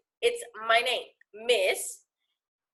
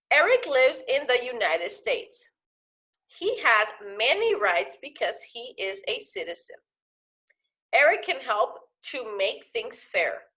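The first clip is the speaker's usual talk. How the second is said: reading aloud. Shown as a demonstration. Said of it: "let's continue".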